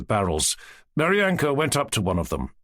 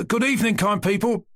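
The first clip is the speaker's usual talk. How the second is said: very gentle; 11 semitones higher than usual. A narrator's reading. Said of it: "having made up his mind to be very gentle".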